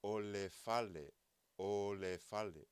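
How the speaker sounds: Ole fale said slowly and clearly; slow Samoan demo. Shown as a demonstration. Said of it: "so then you could reply".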